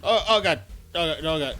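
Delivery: startled panic. Real, not acted. Startled by enemy.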